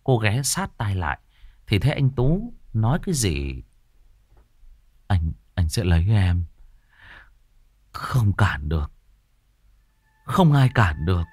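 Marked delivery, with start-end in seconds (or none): 5.1-11.2 dreamy, halting murmur; eerie sleep-talk with long gaps; mumbling in sleep. A narrator's reading. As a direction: drone it out in pieces, half-conscious. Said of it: "lẩm bẩm nói gì đó như đang nói mơ".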